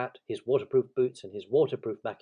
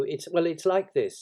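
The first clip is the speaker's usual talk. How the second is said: hesitant, restarting, higher and louder; floundering Pooh; 7 semitones higher, 6 dB louder than usual. Acted. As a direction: grope for an explanation. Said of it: "he wasn't explaining very well".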